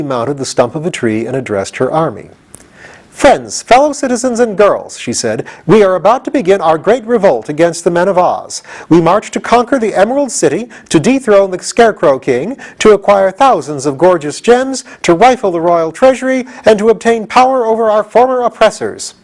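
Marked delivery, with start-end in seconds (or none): 3.1-5.0 rousing speech. Acted. General addresses her army. 5.7-19.1 rallying speech. Acted. General's speech to army.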